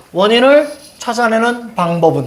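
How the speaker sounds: "원인을", a pause, then "찾아내는 방법은"; reading demonstration. Shown as a demonstration. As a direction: break "원인을 찾아내는 방법은" into measured chunks. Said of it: "이렇게 읽어야지".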